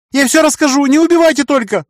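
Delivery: high, pleading, terrified; boy begging not to be killed; frightened babbling. A narrator's reading. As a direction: beg for your life in panic. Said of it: "пролепетал парнишка".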